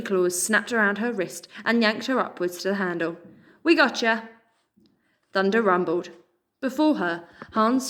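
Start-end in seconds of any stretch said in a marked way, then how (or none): 3.6-4.3 put-on bright American accent, a little higher and louder. A narrator's reading. Pigeon catching Pip mid-fall, American accent. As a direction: cheer her up in the pigeon's American voice. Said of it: "in an American accent".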